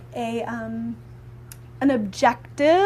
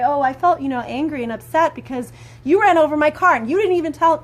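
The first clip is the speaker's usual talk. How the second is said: mild angry accusation; 3 semitones higher, 4 dB louder than usual. Shown as a demonstration. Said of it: "normally maybe I'd say".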